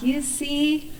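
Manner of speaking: high, taunting devil's gloat; little devil. Acted. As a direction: rub it in as a smug shoulder devil. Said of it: "the devil was like".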